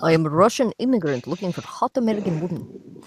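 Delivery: bad Russian accent. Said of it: "bad Russian accent".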